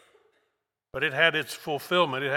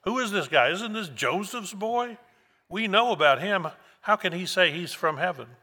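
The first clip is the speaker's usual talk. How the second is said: grumbling Jews; 6 semitones higher than usual. Retold or imitated. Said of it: "they grumbled".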